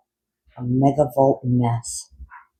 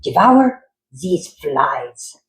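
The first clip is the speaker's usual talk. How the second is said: mad scientist; much slower than usual. Acted. Doctor commanding.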